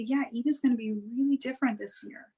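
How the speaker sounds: calm soothing parent voice; soft, calm tone. Shown as a demonstration. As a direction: say it gently to reassure a child. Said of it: "Keeping your tone soft. If I speak to you like this".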